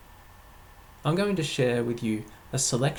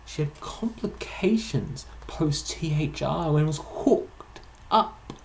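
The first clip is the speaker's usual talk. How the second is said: measured poetry reading, pausing between phrases; poem recital; 4 semitones higher, 4 dB louder than usual. Acted. Poet sharing an acronym-filled healthcare case study, measured verse recital. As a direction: lean on the rhymes and stretch out key words.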